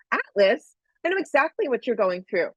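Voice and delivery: lightly voiced eager helper; eager helper woman.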